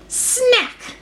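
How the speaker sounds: high sharp snap of jaws; snapping sound word. A narrator's reading. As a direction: bite the word off like closing jaws. Crocodile's jaws snapping shut.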